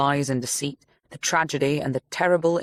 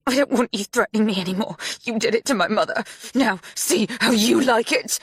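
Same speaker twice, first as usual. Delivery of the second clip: cold threat; 7 semitones higher than usual. A narrator's reading.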